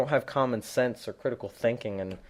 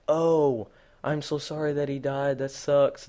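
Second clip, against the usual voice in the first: mock sympathy; 3 semitones higher, slower than usual. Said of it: "me being nice to you".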